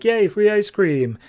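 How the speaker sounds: put-on high, slow childish cheer; a little kid thrilled at a treat; excited kid. Schoolkid cheering about free ice cream, high and drawn out.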